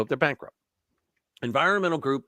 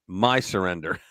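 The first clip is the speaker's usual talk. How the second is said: mock French accent with a nasal "surrender", said low; a jokey French accent on "My surrender" with a nasal vowel in "surrender"; 8 semitones lower than usual. Joking about how the French say it, mock French accent. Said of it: "I believe what they say in English is".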